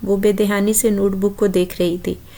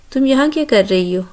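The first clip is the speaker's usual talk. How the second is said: questioning; 4 semitones higher than usual. Acted. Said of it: "سوالیہ انداز میں پوچھ رہا تھا".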